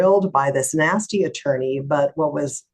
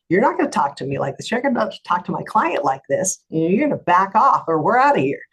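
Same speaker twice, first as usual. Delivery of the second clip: retold firm warning, mildly heated; pissed off; 3 semitones higher than usual. Lawyer standing up for her client to nasty attorney, mildly angry. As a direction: lay down the line in a retold confrontation. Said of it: "I was really pissed off".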